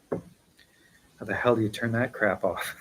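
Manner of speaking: slow, grumbling complaint. Real, not acted. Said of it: "said the grumpy old man".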